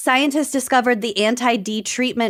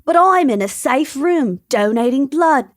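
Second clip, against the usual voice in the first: put-on Australian accent; 3 semitones higher than usual. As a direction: do a casual Australian accent for the quote. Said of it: "That's my Australian accent".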